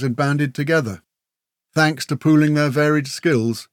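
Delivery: put-on warrior recounting an old legend; measured storyteller, lifting each new phrase; tale-telling. A narrator's reading. Murrock telling Grell how orcs began, storyteller's recital.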